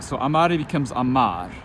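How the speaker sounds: "amare" stressed on MA, then "amar" stressed on the final MAR; "amare" then "amar", stress on the last syllable; stress shift demo. Shown as a demonstration. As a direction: show the stress moving to the end, a-MAR. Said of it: "the penal becomes the ultima".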